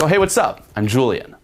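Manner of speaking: high, bright opener; playful fun. Shown as a demonstration. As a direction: greet her like it's a fun game. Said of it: "adding to the fun".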